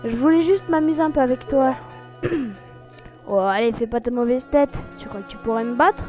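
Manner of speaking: teasing imp voice. Acted. Reads Skull Kid's dialogue.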